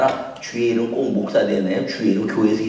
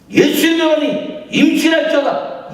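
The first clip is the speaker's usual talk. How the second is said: high, loud priestly proclamation; mock pompous blessing; 4 dB louder than usual. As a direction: pronounce it like a grand pastor's decree. (거창하게 선포하는 목사 흉내)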